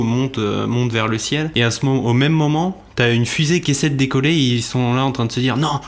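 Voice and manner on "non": mildly hammed-up alarm, a little raised; mock panicked crew. Retelling the rocket crew's failed take-off, mock panic. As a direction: imitate a crew protesting in a disaster film.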